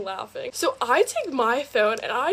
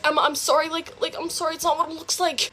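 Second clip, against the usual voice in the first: mock pleading boyfriend, higher pitched; raised-pitch retold excuse; 5 semitones higher than usual. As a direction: imitate a boyfriend stammering out an apology.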